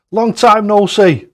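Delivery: slow, high and loud, drawn-out delight; excited greeting. Real, not acted. Greeting Clive after a long time, slow and delighted. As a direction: stretch each word like a joyful hello.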